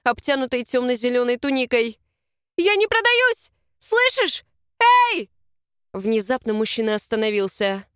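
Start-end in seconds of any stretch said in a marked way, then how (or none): 2.6-5.3 high, loud indignant yell; shouting. A narrator's reading. Heroine yells at the Alpha over his shoulder, high and loud. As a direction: scream it while struggling.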